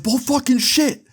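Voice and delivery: imitating an outraged guy, very high and slow; disbelieving rage. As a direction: spit each word out in mocking fury. Guy calls Evan a liar.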